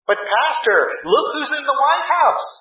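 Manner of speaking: hammed-up worried church member; mock fretful churchgoer. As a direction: lampoon the nervous complainer. Mocking a fretful churchgoer's complaint.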